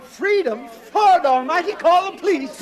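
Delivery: alarmed official yelling; alarmed outcry. Acted. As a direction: call for help. Alarmed orderly shouts.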